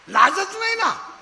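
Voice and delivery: scornful lament. Real, not acted. Scolding girls' shamelessness.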